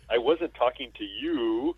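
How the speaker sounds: slow, dry put-down; slow deadpan retort. Retold or imitated. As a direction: drag it out flatly. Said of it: "and then he says".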